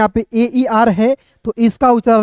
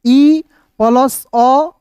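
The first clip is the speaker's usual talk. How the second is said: very slow spelling out; 3 semitones higher, much slower than usual. Shown as a demonstration. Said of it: "उच्चारण".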